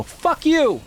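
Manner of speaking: angry yell. Retold or imitated. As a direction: bark it at the host. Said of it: "And I go".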